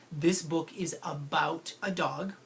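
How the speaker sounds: slow and clear, like dictating; slow model sentence. Shown as a demonstration. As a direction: read it slowly for kids. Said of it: "Then I'll put it in a sentence".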